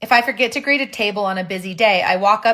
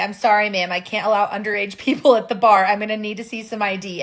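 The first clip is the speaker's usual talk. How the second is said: ordinary talk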